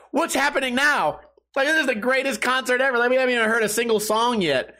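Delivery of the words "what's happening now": higher, wide-eyed what's happening; mock surprise. Watching a fight break out, mock bewildered. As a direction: toss it off in amused disbelief. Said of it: "I'm like".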